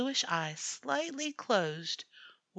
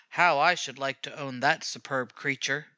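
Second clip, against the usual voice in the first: lower, wistful voice of a rich lady; longing society lady; 4 semitones lower than usual. A narrator's reading. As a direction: covet the cat aloud. Society ladies admiring cat.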